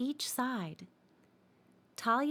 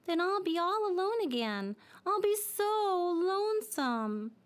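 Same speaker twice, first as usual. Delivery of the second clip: high, slow, forlorn little voice; sad dreidel; 9 semitones higher than usual. Acted. Dreidel fears being left alone in the leaves, sadly. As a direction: sigh it out, afraid of being alone. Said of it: "said the dreidel sadly".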